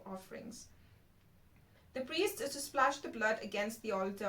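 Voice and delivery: measured Bible reading aloud; scripture reading. Real, not acted. Host reading Leviticus to viewers, scripture reading. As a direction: read the verses out, phrase by phrase.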